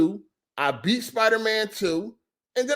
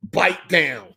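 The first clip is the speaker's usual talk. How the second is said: mocking shout of name; 5 semitones lower than usual.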